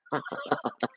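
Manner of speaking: quiet, delighted chuckle; soft laugh. Real, not acted. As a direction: laugh softly to yourself. Reader delighted by the cards.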